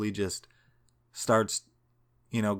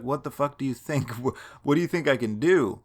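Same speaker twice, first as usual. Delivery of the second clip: laughing disbelief; 4 semitones higher, 3 dB louder than usual. Retold or imitated. Exasperated reply, laughing.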